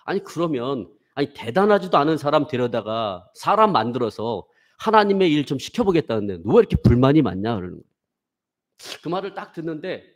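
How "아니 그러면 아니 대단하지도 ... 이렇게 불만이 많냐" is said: louder, blunt mock scolding; lightly voiced senior scolding a complainer; senior's scolding. Senior scolding the student for grumbling, blunt. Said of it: "그분이 하는 얘기가".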